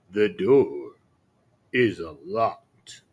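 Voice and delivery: low, slow wolf faking kindness; a wolf luring her in, drawn out; sly wolf voice. Acted.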